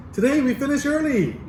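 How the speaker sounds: high and loud, laughing through it; excited dismissal. Retold or imitated. Professor dismissing class to hear the student, laughing excitedly. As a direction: rush the class out, giddy and laughing.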